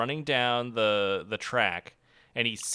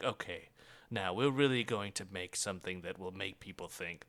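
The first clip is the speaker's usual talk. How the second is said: lower, softer pompous voice; a hint of a self-important filmmaker; lightly voiced solemn auteur; mock serious director; 7 semitones lower, 10 dB quieter than usual. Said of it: "the director wasn't being like".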